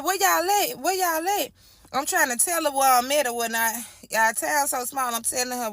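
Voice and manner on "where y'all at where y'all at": much higher, urgent questioning as the mother; imitating mom's frantic questions on the phone; panicked mom. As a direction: repeat it fast like a frantic mom. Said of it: "she like".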